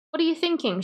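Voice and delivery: high-pitched, appalled question; appalled protest. Acted. Mother confronting father over their daughter, appalled. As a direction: pitch leaps up in disbelief.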